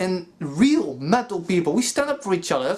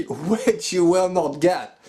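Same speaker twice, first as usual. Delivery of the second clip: mocking laugh; slower than usual. Mocking repeat of apology line.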